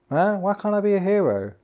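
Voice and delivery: high, loud jokey lament; hammed-up plaintive question; mock emotional hero. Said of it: "one of the emotional moments".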